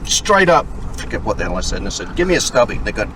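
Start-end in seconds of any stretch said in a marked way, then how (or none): 0.0-0.7 loud, high, slow Aussie retort; hammed-up Australian shout; Australian accent. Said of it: "the Australian accent you do". 2.2-2.8 put-on Australian accent. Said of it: "the Australian accent you do".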